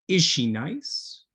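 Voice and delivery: slow, clear model question; slow teacher demo. Shown as a demonstration. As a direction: spell it out slowly for learners. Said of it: "we can say".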